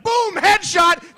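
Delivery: high, loud, drawn-out yell; hammed-up high gamer cheer; mock crowd shout. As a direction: crow it like a gloating crowd. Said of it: "the whole crowd's like".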